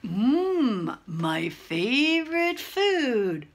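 lightly voiced hungry Gruffalo; hungry monster. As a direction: savour it slowly, stretching the words. Gruffalo savours his prey.

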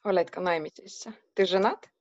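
usual speaking voice

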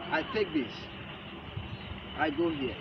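usual speaking voice

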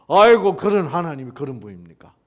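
loud astonished exclamation; townspeople's amazed outcry; Nineveh's astonished cry. Acted. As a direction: gasp at what God is like. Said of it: "니느웨가 뭐예요".

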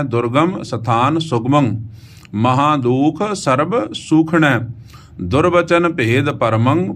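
slow, halting word-by-word reading from "ਦੁਰਗਮ" to "ਪਰਮੰ"; detached words with rising and falling tunes, "ਦੁਰਗਮ" through "ਪਰਮੰ"; pause on every word. Shown as a demonstration. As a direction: stop after each word, "ਦੁਰਗਮ", "ਸਥਾਨ", "ਸੁਗਮੰ", and so on. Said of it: "ਹਰ ਅੱਖਰ ਤੇ ਰੁਕ ਕੇ ਜਾਣਾ ਹੈ".

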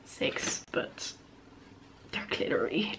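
half-whispered embarrassed aside; whispering. Real, not acted. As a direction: whisper it under your breath. A small self-mocking aside.

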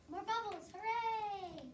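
high, loud fake cheer; mock cheer. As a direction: cheer it too brightly. Witch cheers at bubbles.

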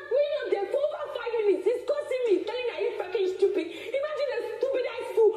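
bitter laugh. Real, not acted. Venting to a friend about the insult, laughing bitterly. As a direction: scoff out the insult through laughter.

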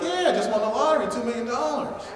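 excited stranger. Pretend.

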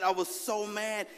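ordinary talk, nothing marked

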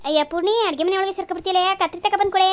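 loud, high call across the house; impatient call to the daughter-in-law. Acted. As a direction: shout for her to bring scissors. Mother-in-law calling from another room.

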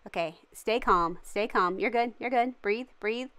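self-soothing. Real, not acted. Talks self down after falling.

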